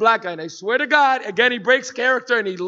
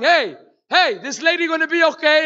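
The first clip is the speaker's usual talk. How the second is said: mock anxious fatherly fretting, nervous, high and drawn-out; 5 semitones higher than usual. Retelling how a nervous father asked about a woman in a video: imitating a nervous dad. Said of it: "my dad starts getting nervous".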